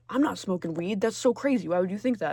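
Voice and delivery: acted indignant kid, lightly voiced; kid's protest. Kid denying weed to parent, mildly indignant. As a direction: protest innocence like an accused kid.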